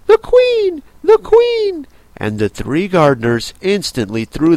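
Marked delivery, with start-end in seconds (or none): 0.1-1.9 high, loud alarmed cry; calling out. Acted. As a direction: call out the warning in a panic. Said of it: "called out".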